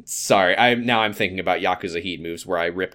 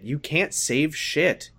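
mocking echo; 6 semitones higher, much slower than usual. Mocking repeat of the comment.

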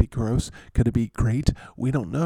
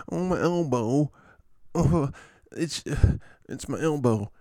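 halting mock moan of pain; lightly voiced whiny injured player; S Barkley; 4 semitones higher than usual. Injured player moaning about an elbow, mock whining. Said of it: "S Barkley".

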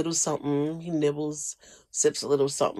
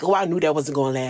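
mocking know-it-all; much faster than usual. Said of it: "are like".

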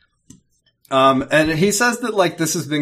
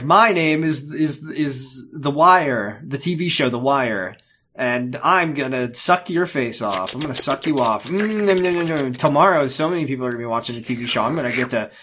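hungry monster voice. Retold or imitated. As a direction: savour each word like a feast. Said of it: "lady's like".

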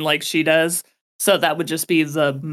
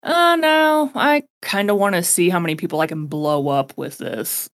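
excited squeal. Retold or imitated. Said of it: "for me to be just more like".

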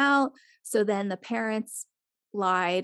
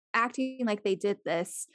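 normal talking voice

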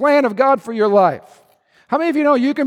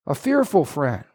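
soft echo; 8 semitones lower, 5 dB quieter than usual. Acted. Preacher softly repeating the point to the congregation. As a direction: drop low and soft on "fearful".

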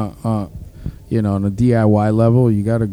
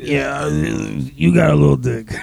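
slow shouted mock taunt; slower than usual. Retelling a dick joke at Dave, slow mock shout. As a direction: shout the taunt slowly, hammed up. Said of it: "quick dick joke".

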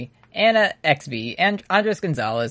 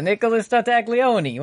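put-on voice; 7 semitones higher than usual. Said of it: "regular voice".

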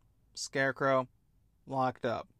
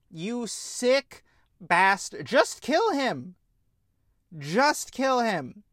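slow, louder, higher pleading; furious plea; 4 semitones higher, 3 dB louder, slower than usual. Real, not acted. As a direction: beg them through anger.

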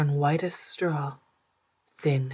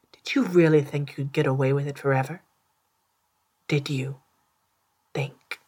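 fast, loud, exasperated scolding that fades at the end; scolding rant; 4 dB louder than usual. Acted. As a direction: rattle off the reproaches, then drop off. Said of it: "they said".

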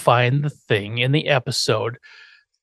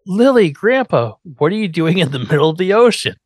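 mock surprise; 4 semitones higher than usual. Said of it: "Lily and Grandpa come storming in".

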